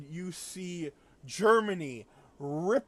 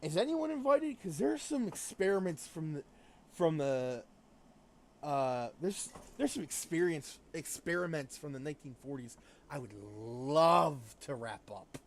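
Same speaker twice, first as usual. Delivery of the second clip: imitating Japan. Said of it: "Japan gets involved and says".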